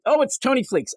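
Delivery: a hint of a sheepish reader; mock proud answer. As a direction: announce the name eagerly.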